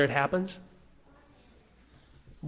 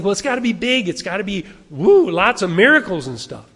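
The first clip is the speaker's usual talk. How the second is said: mock tempter voice; 5 dB louder than usual. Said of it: "Satan can make us think".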